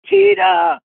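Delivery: high loud call of the name; high yelled name; retold yell. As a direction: yell the name over your shoulder. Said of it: "He yells over his shoulder".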